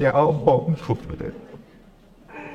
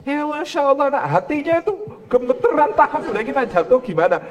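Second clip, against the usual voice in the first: panicked parent; 7 semitones higher than usual. Retold or imitated.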